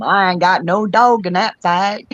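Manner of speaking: Southern drawl with a bit of England in it; English friend's attempted Southern accent. Friend tells people who want her to jump in, attempted Southern accent. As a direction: mimic an Englishwoman trying to sound Southern. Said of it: "trying to do it with a Southern accent".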